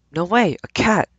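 put-on high-pitched squealing girls; shriek. Girls passing by shrieking at the cat. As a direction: squeal it like a thrilled teenager. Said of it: "The shriek came from a clump".

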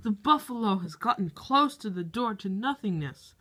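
hushed wildlife narrator voice; nature documentary. Acted. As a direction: narrate like a nature show host.

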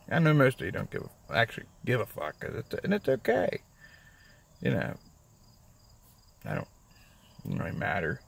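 talking around new dentures; words mushy from new dentures; new dentures in mouth. Real, not acted. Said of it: "Sounds like I'm chewing on one of them little fucking rubber balls".

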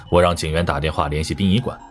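plain reading voice

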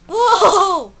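loud startled cry with a laugh; surprised whoa. Real, not acted. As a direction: react to the sudden glitch. Surprise at glitch.

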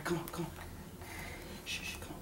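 very soft coaxing murmur; soft soothing. Real, not acted. Mom coaxing her fussy baby, very softly.

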